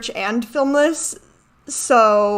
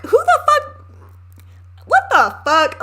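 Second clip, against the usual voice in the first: high, loud incredulous outburst; outraged disbelief; 4 dB louder than usual. Real, not acted. Venting to viewers about the hospital therapists, outraged. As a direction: blurt it out, appalled at the staff.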